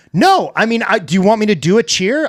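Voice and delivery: eager and high, pleading to cheer. Retold or imitated. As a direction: beg to show off a cheer. The speaker plays an eager cheerleader wannabe.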